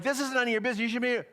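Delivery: imitating a woman snapping back; retold yelling. Stranger caught dumping trash, imitated mild mock yell. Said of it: "starts getting mad and starts yelling at me".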